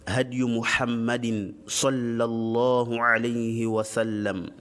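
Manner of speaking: measured, even-pitched Arabic recitation; formulaic sermon opening. Real, not acted. Teacher opening a religious lesson with Arabic praise, formal recitation.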